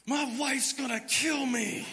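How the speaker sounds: loud high laugh through the words; laughing shout. Real, not acted. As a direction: crack up at your own disaster. Laughing at his own mess.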